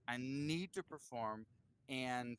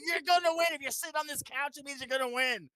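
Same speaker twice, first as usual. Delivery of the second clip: much higher, louder, eager promise; hyped rocker; 11 semitones higher, 9 dB louder than usual. Retold or imitated. Trey telling the new guy he'll win, high and excited. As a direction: sell the win like a pumped rock star. Retelling Trey's prediction.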